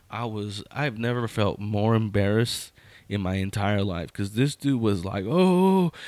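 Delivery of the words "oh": high, drawn-out mocking "oh"; imitated teasing. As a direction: jeer like the onlooker, pitched high.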